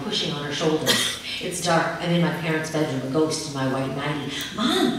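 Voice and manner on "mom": put-on high, insistent little girl; child calling. A narrator's reading. Child tugging sleeping mother, high insistent call. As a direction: call mom again, higher. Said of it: "I say again".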